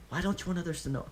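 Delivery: put-on high little boy's question; curious child. A narrator's reading. Child Deidara suddenly asking Obito about his mask, high curious voice. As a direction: ask like a nosy kid. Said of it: "barrage of childish questions".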